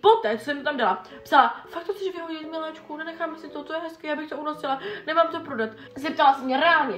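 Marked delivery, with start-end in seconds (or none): 1.7-5.7 softer, higher doting mom; mom's sweet plea. Retold or imitated. Daughter reading mom's doting text, higher and softer. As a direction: coax like a fussing mother. Mother's text read softly.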